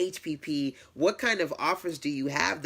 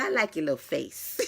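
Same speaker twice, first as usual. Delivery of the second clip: quoting while laughing. Retold or imitated. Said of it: "She said".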